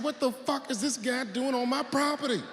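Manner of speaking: high, indignant yell-ish quote; mock outrage. Comic telling himself off the trespasser, mock outrage. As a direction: act out his fury at the trespasser.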